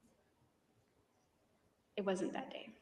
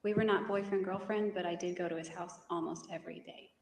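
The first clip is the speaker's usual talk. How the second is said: louder, clearer repeat; 5 dB louder than usual. Real, not acted. Witness repeating for a lawyer who didn't hear, louder and clearer. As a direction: repeat it firmly so it carries. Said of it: "You're mumbling, I didn't hear you".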